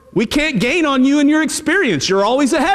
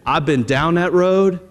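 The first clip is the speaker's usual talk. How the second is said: testimony voice; 9 semitones lower than usual. Retold or imitated. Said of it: "be a testimony to somebody and say".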